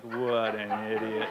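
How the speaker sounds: slow, deadpan disgust; imitated disapproval. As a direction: drag it out, unimpressed. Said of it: "shaking her head like".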